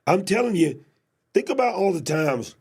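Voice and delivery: talking around cough drops; words round two cough drops; mouth full. Real, not acted. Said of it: "I got two cough drops in my mouth".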